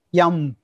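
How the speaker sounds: "yum" said slowly in place of the letter M; mispronounced M. Shown as a demonstration. Guest shows host a Sanskrit mispronunciation, slow "yum". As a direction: sound out "yum" the wrong way, slowly. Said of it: "people may pronounce M as yum".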